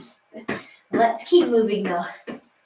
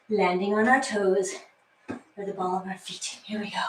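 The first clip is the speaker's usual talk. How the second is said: breathless from the workout; out of breath; 2 semitones lower, 4 dB quieter than usual. Real, not acted. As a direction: talk while out of breath. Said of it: "You can tell I'm out of breath".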